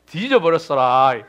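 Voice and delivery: slow, laughing Jeolla dialect imitation; playful mock Jeolla accent. Shown as a demonstration. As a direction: drawl it out like a Jeolla local, chuckling. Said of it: "전라도 사람은요".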